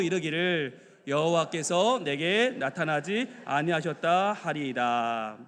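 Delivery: slow, measured Bible reading; scripture reading. Acted. Preacher leads congregation in reading the day's verse, solemn and measured. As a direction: read the verse out formally, drawing out the ending.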